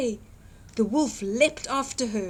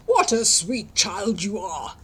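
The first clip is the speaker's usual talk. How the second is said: sly wolf voice; 2 semitones lower, 4 dB louder than usual. Acted. Wolf flatters the girl.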